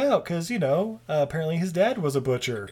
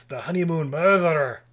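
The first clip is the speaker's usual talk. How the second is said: bad Scottish accent; 3 dB louder than usual. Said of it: "I have a horrible Scottish accent".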